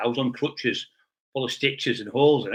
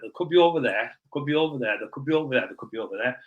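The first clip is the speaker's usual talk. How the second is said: mocking; faster than usual. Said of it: "I was doing that there, like this, to take the piss".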